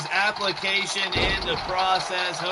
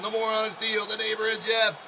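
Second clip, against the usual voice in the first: ring announcer call; 4 semitones higher than usual. Pretend. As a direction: call out the wrestler's name high and stretched. Drawn-out ring introduction of wrestler.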